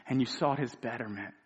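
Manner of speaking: usual speaking voice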